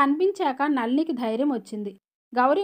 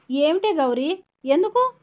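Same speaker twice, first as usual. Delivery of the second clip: higher, louder, climbing panicked questions; anxious asking; 5 semitones higher, 5 dB louder than usual. A narrator's reading. Sister alarmed by sobbing Gauri, anxious high questions. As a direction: ask in rising alarm. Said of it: "కంగారుగా అడిగింది".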